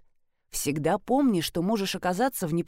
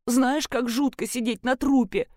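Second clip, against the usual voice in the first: sobbing; 3 semitones higher than usual. Acted. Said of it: "рыдала Калинина".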